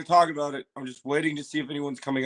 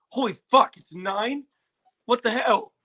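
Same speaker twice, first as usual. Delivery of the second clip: mock panic; 6 semitones higher than usual. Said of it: "And I was like".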